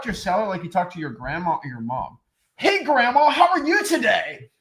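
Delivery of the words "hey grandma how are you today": very high, louder sing-out greeting; absurdly overdone sales voice; fake salesman. Coach greets grandma like a wholesaler, fake and overblown. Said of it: "you don't talk like that".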